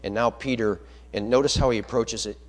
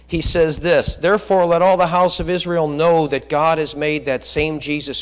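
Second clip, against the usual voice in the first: fervent preaching; 3 semitones higher, 7 dB louder than usual. Real, not acted. Preacher building on God's work.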